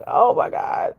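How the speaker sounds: breathy, voiceless "oh my God"; whispered exclamation. Retold or imitated. Reacting to the smoky room, voiceless whispered shout. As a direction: gasp it out without voice. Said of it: "I was like".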